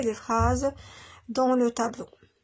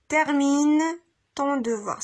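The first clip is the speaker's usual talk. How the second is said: firm command; 3 semitones higher, 4 dB louder, slower than usual. Shown as a demonstration. Teacher voicing an example order.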